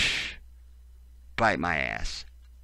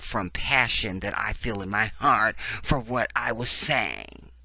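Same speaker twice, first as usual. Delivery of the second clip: mocking quote; 3 semitones higher than usual.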